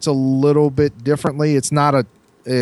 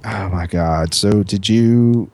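snooty uptown voice; 4 semitones lower, slower than usual. Retold or imitated. Mocking snooty uptown people.

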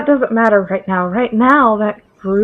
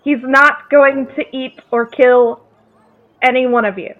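booming magic voice; 3 semitones higher than usual. Acted. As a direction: boom it out over the crowd. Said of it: "use thaumaturgy to amplify my voice".

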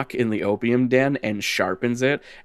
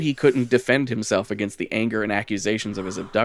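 measured lore reading; lightly dramatic storyteller voice; story narration. Acted. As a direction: read it like a dark legend. Reads the lore text aloud.

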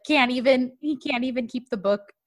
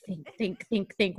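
soft retold self-prompting; muttering to himself; 2 semitones lower, 6 dB quieter than usual. Host retells him searching for an excuse, muttering to himself. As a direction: mutter it as private thought.

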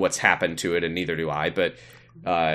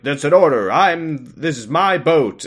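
bossy order; 6 semitones higher, 4 dB louder than usual. Retold or imitated. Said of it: "Palmerdale's like".

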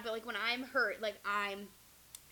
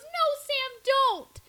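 high, loud desperate yell; urgent shout; 14 dB louder than usual. Retold or imitated. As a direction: stop her before she swings. Little brother stops her hitting.

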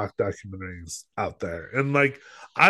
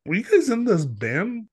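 high, eager question to his dad; a son bursting to ask his father; excited son; 10 semitones higher than usual. Retold or imitated. Son asking his dad about the band, high and eager.

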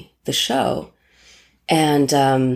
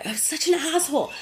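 much higher, laughing through the words; 11 semitones higher, 5 dB quieter than usual. Real, not acted. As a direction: laugh at your younger self. Laughing at own past self.

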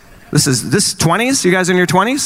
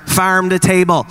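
slogan read; 3 semitones higher than usual. Retold or imitated. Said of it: "catchphrases every time I turn".

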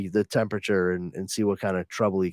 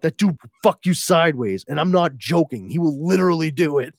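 much higher and louder, fast frantic warning voice; angry hushed warning; 6 semitones higher, 5 dB louder than usual. Retold or imitated. The Fuck warning Wesley about the villain, frantic high voice. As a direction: snap at him to shut up, then warn fast. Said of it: "the fuck's like".

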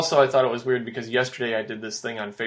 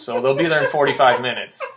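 laughing; 5 dB louder than usual. Retold or imitated. Retelling scammer's threat.

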